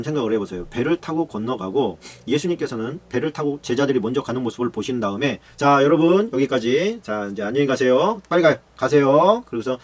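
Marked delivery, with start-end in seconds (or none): 5.6-9.4 loud dismissal. Acted. Jesus sending crowd away.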